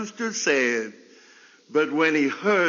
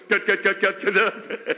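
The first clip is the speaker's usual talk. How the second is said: excited hen clucking. Retold or imitated. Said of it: "when she gets a little excited, she go".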